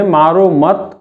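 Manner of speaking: "मारो मत" run together as one phrase; no break between "मारो" and "मत"; comma after मत. Shown as a demonstration. Teacher shows the misreading, "मारो मत" joined up. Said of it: "उसने कामा को ध्यान नहीं दिया".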